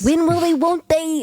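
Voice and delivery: singsong tease. Pretend. Joining the teasing singsong.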